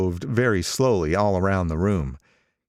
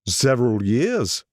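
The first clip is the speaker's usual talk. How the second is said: a hint of pleased pride, higher; gratified old gangster; 4 semitones higher, slower than usual. Old gangster pleased to talk of Gatsby, mildly gratified. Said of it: "he answered in a gratified way".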